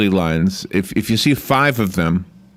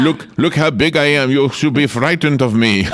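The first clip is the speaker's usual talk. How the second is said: puffed-up bird; 3 semitones higher than usual. Acted. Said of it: "Is this to scare the other ones?".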